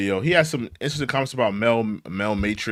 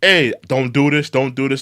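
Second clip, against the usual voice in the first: mock quote; 6 dB louder than usual. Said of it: "You told Waldorf and Statler".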